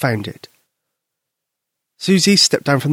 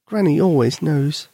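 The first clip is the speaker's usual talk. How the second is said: sorrowful; 3 semitones higher than usual. Acted. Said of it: "Susie told him sorrowfully".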